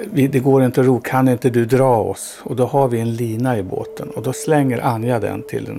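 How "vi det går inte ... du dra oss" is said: a louder retold call across the water; mild mock yell. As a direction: raise the voice, calling for a tow. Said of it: "skriker jag till honom". (återberättat rop, lite högre)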